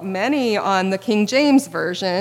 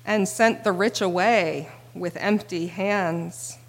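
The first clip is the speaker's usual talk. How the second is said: scripture reading. Acted. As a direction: read it reverently.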